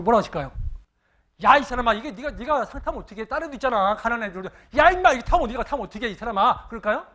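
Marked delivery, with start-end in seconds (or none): 1.4-6.7 a higher, louder mock scold from the father; a hint of a gruff father playfully scolding. Father teases his son for taking first place, mock scolding.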